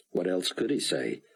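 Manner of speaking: ordinary delivery, nothing marked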